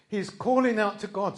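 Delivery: rising emphatic restatement. Shown as a demonstration. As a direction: build it, leaning on "calling".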